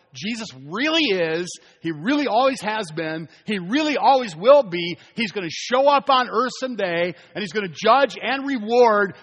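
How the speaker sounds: emphatic preacher driving each repeated phrase home; impassioned preaching. Acted. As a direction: preach it with building urgency, phrase on phrase. Preaches with rising force.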